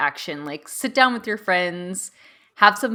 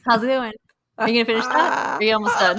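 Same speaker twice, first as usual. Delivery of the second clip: impatient; 5 semitones higher, 4 dB louder, faster than usual. Retold or imitated. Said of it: "they're just like".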